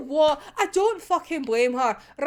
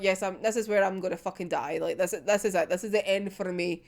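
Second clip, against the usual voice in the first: resigned despair; 8 semitones lower, 6 dB quieter, faster than usual. Acted. Voicing Aya's despair.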